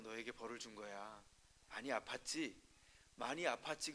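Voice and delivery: hushed fatherly reassurance; gentle father. Retold or imitated. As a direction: speak low as if soothing a crying toddler. Father comforting crying child.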